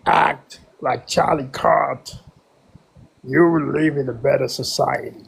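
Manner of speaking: a fake accent, held steady; trolling the room in a put-on voice. Caller trolling the room about Charlie Kirk, put-on accent. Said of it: "not with that accent and not with that troll voice".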